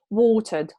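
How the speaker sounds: watered with a long O and no R. Shown as a demonstration. Teacher showing a student the verb watered, long O and no R. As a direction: stretch the O in watered, drop the R. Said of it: "long O".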